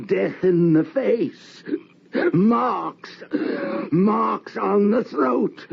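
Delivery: high tearful slow voice; tearful horror. Acted. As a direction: weep at the sight. Seeing the murdered wife's ghost.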